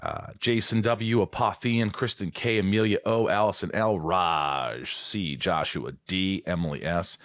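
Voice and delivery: drawn-out, lilting list of names; roll-call announcer. Acted. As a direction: stretch each name like an announcer. Reads out patron roll call.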